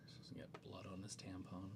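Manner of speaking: whispering. Real, not acted. Whispered crude joke.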